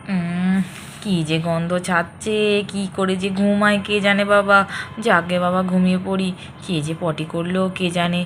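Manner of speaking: low, grumpy half-asleep mutter; sleepy grumbling man. Acted. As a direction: grumble your way back to sleep.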